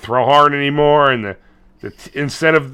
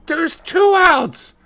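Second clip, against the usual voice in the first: stretched high slow call of two outs; hammed-up ballpark call; mock announcer; 13 semitones higher, much slower than usual. Announcer call in retold movie.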